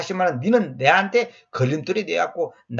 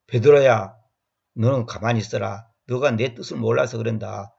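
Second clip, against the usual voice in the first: calm explaining; 5 semitones lower than usual. Pretend. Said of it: "뭐 이런 식으로 설명하면".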